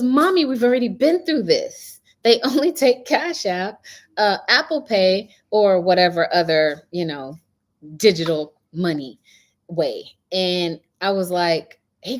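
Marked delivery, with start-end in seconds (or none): 0.0-10.0 daughter's voice. Retold or imitated. Daughter quoted, raised pitch.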